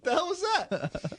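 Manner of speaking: high, slow, disbelieving; high drawn-out mock disbelief; stunned disbelief. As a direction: drag it out, amazed. Echoing the stunned driver.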